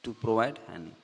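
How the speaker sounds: slow, careful reading of an English definition. Shown as a demonstration. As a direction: read it out word by word for the class. Reads English definition slowly. (परिभाषा धीरे-धीरे पढ़कर सुनाना)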